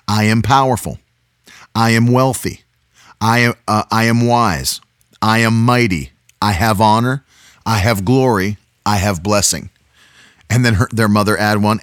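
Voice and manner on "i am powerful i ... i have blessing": firm declarations, each line falling; booming motivational speech. Shown as a demonstration. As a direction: lead a nightly confession. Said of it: "Repeat after me".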